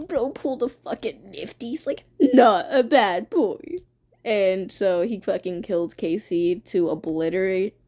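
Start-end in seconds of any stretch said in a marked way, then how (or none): 2.2-3.6 slow, mock petulant protest; put-on sulky insistence; Blood Moon, pissy crybaby. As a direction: replay the crybaby outburst, drawn out. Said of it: "Blood Moon's a little pissy crybaby".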